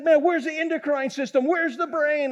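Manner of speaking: high-pitched imitation of a baffled doctor; retold incredulous challenge. Doctor quizzing the guide on leaf glands, mock-incredulous. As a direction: demand an answer in mock disbelief.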